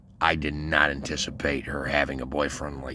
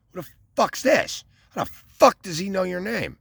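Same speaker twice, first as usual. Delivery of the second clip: much higher, put-on voice for the jealous boyfriend; boyfriend's voice; 4 dB louder than usual. Jealous boyfriend demanding who this man is, high mock voice. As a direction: play the baffled jealous boyfriend, pitched up.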